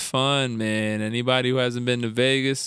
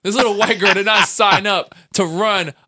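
laughing rant; 5 semitones higher, 5 dB louder than usual. Real, not acted. Ranting while laughing.

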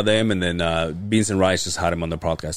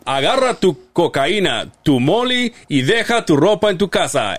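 high, loud, hyped promoter call; brash fight promoter hype; 9 semitones higher, 4 dB louder than usual. Retold or imitated. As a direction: announce it like a fight night. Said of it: "a promoter voice".

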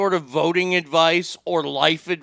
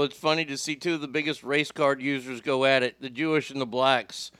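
talking while chewing popcorn; words round a mouthful of popcorn; munching popcorn; 4 semitones lower, 5 dB quieter than usual. Real, not acted.

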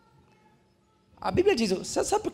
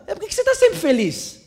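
high, loud imitation of an irritated questioner; mock annoyance; 10 semitones higher, 7 dB louder than usual. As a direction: demand it as if their cheerfulness offends you. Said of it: "Tem gente que fica bravo".

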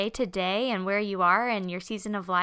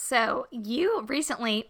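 frog in throat; 3 semitones higher, slower than usual. Real, not acted. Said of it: "I got a little frog in my throat".

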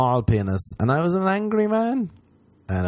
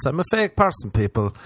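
fake voice. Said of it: "Here's another fake voice".

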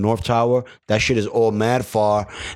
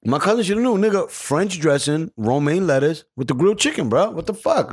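exasperated; 6 semitones higher than usual. Real, not acted. Exasperated rant about cousin.

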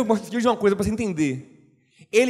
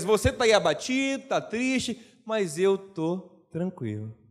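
calm reassuring God. Retold or imitated. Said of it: "Deus estava dizendo a Elias".

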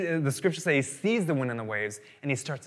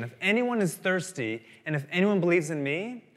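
higher pitch, leaning on each "anyone"; stress on ANYONE; 4 semitones higher than usual. Acted. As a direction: make "anyone" stand out as all-inclusive. Repeats it after "no qualification.

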